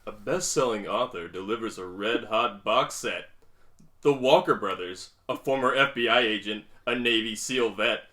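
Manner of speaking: sensual honeyed voice; sultry voice. Pretend. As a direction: read it like a seductive audiobook. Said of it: "Make it sound sensual".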